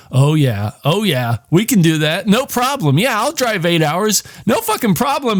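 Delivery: acted hyped-up eagerness, pitch climbing high. Husband jumping at the eight-hour drive, hyped up. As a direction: build from keen to over-the-top eager. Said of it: "getting all hyped up about it".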